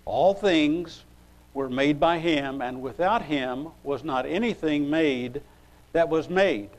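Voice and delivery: deliberate, phrase-by-phrase verse reading; scripture reading. Acted. Preacher reading from John to the congregation, scripture reading. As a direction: read it out emphatically, with pauses between phrases.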